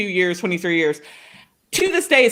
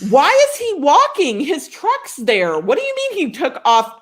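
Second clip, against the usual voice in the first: retold scolding, pitched up at first; mock indignant questioning; 5 semitones higher than usual. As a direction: imitate an outraged mother on the phone. Mom scolding dad on phone.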